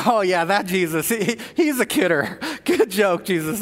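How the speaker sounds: chuckling, brushing the idea aside as a joke; laughing it off. Retold or imitated. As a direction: laugh it off like a good-natured tease. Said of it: "the disciples are like".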